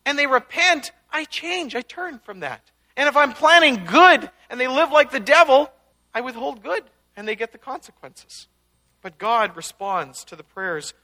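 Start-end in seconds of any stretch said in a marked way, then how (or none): 0.0-8.5 louder, higher voice of God declaring; solemn voice of God, loud then settling; quoting God. Retold or imitated. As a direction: announce it as God laying down terms. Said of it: "He says".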